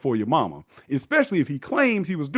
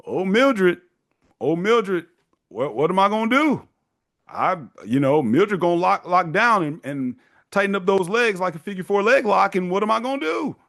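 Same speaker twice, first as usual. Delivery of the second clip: high, whining, helpless husband begging his wife; whiny dad pleading; 6 semitones higher than usual. Retold or imitated. Husband begging wife Mildred for sex, high helpless whine.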